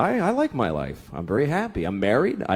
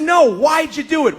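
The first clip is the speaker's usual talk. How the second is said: imitating wife; 6 semitones higher, 5 dB louder than usual. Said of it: "But she says".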